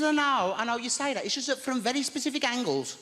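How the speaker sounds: high, fretful Birmingham neighbour; lightly voiced flustered old lady; Maud's voice. Maud voiced in story.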